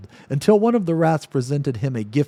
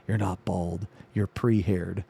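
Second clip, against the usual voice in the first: soft whisper; 5 semitones lower, 6 dB quieter than usual. Acted. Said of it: "and whispered".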